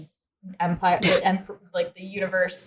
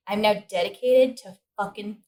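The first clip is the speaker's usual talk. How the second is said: imitated emotionless resolve; 2 semitones lower, 7 dB quieter than usual. Leia silently vowing revenge on her captors, deadpan. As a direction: voice her inner vow with no show of emotion. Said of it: "she doesn't show any emotion".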